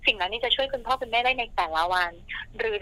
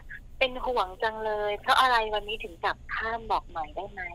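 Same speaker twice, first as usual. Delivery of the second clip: soft caring voice. Pretend. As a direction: ask like a worried, loving wife. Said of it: "เสียงนุ่มๆแบบนี้".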